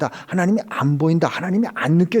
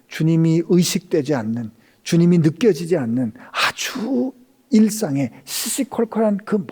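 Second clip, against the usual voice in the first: ordinary delivery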